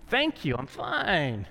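slow, drawn-out politeness; mock calm. Patient shopper to a store clerk, put-on calm. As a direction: draw it out, politely brushing someone off. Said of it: "in a very calm voice".

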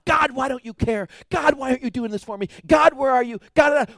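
yelling at God. Retold or imitated. Believer in distress yelling at God, accusing. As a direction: hurl the questions at God. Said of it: "when we're yelling at God".

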